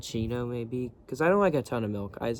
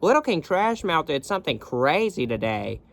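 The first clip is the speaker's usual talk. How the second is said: high, louder, breathless mom gossip; Linda Belcher gossiping; 5 semitones higher, 5 dB louder than usual. Retold or imitated. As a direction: dish the news like a thrilled mom. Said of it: "she'd be screaming at me".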